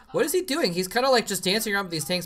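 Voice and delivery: surprised. Real, not acted. Caster reacts to odd play.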